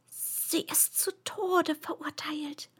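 slow, secretive whisper. A narrator's reading. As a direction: whisper it close to the ear. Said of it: "und wisperte".

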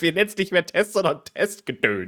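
high, loud mock-grand title announcement; hammed-up loud proclamation of a silly title; playful announcement. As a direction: announce the new name like a show host. Jokey renaming of the test.

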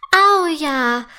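put-on a little girl cheering at the idea; excited cry. A narrator's reading. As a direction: burst out with joy. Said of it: "ruft Mera begeistert".

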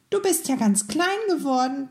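high, startled piping; a tiny voice jumping up in alarm; squeaking mouse. A narrator's reading. Mouse noticing the candle shrink, high squeak. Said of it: "piepste das Mäuschen".

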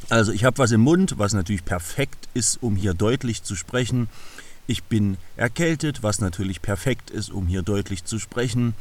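talking around a cough drop in the mouth; mouth full. Real, not acted. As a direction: speak with a candy in your mouth. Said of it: "ich habe mir was in den Mund gesteckt".

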